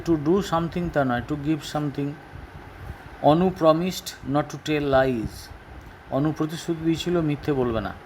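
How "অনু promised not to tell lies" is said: stretched, careful reading; slow model sentence. Shown as a demonstration. Teacher reading the example sentence slowly to pupils. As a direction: say it slowly for the class.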